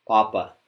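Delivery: papa with a tight unaspirated p; restrained papa; held-breath papa. Shown as a demonstration. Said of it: "It's be easier if you're sitting up straight".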